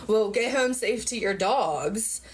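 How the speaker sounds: slow, mock-polite sarcastic drawl; imitating the cop's snide send-off. A cop's snide send-off to the speeder, slow and sarcastic. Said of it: "he said it kinda sarcastic".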